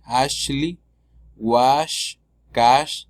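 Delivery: "Ashley, wash, cash" with a soft SH; gentle SH sound in "Ashley, wash, cash". Shown as a demonstration. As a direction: demonstrate the soft "sh" in each word. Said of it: "un sonido suave".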